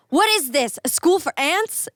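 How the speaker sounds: whispered, then a high scoff; Zoolander impression. Quoting Zoolander to friends, a whisper then a high scoff. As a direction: breathe the first question, then push it up in mock outrage.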